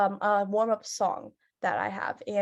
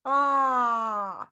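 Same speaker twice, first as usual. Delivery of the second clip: lion roar. Shown as a demonstration. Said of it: "like that, right? Like you're roaring".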